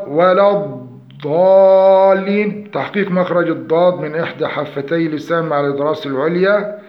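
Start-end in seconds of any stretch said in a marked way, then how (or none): 0.1-2.7 ولا الضالين loud and slow with an extended dad; correct dad. Shown as a demonstration. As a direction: stretch the dad of الضالين loudly. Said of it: "والصواب". (النطق الصحيح بالاستطالة)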